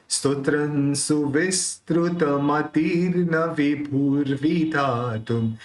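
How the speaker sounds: very slow chanted Sanskrit verse; slow stotra recital; verse recitation. Shown as a demonstration. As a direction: recite the stanza in a steady devotional chant. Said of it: "ऐसा pronounce निकलेगा".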